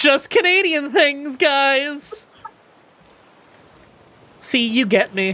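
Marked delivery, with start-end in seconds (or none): 0.0-2.3 put-on slow, higher Canadian accent with a laugh. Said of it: "that's exactly what I sound like".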